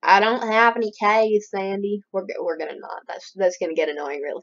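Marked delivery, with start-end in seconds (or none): 0.0-2.0 hammed-up Southern accent, a bit louder. Turning down Sandy's card request, southern accent. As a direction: lay on a mild Southern twang. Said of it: "I just give all the characters a southern".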